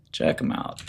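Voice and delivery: unvoiced whisper; whispered plug. Real, not acted. Whispering the plug to his viewers, hushed. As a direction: murmur the plug under your breath.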